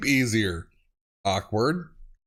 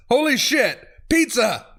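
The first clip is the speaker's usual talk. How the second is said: surprised exclaim; 6 semitones higher than usual. Real, not acted. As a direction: blurt it out in shock. Shocked by autocorrect fail.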